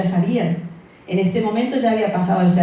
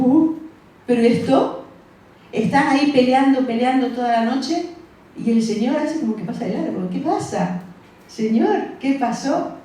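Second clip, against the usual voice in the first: raised, bewildered questioning at the Lord; puzzled disciples; 5 semitones higher than usual. Retold or imitated. Disciples in the storm ask the Lord, bewildered and higher.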